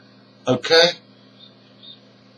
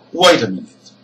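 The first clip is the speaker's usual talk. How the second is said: "Wait a minute" with a very short, weak "a"; stress on WAIT and MINUTE; 4 dB louder, much faster than usual. Shown as a demonstration. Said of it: "stressed syllables, two stressed words".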